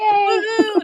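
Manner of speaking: high-pitched woohoo; celebratory whoop. Real, not acted. Guest celebrating a working A C, celebratory whoop.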